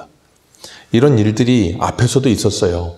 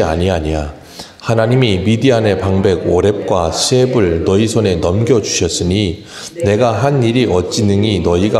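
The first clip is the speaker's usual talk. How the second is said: slow, measured reading aloud; scripture reading. Acted. Preacher leading a congregation in reading verses, slow scripture reading. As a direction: read the verses out steadily, slowly.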